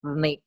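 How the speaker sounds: "snake" with a long hissed S; exaggerated "s" airflow, then the word; fricative demo. Shown as a demonstration. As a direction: stretch the S before "nake" in "snake". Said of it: "if we say a word like".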